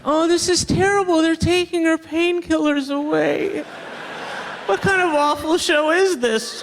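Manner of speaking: mock outrage. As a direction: play the scandalized prude, hammed-up. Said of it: "mock outrage at the show".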